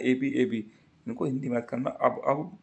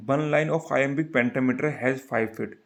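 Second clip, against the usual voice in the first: slow dictation; much slower than usual. Shown as a demonstration. Teacher dictating the rule to students, very slow. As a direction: dictate each word for the notebook. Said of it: "teacher dictating".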